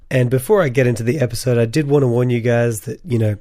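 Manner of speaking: hoarse voice from a cold; sick voice. Real, not acted. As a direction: talk through a lingering cold. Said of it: "you'll have to put up with my sick voice".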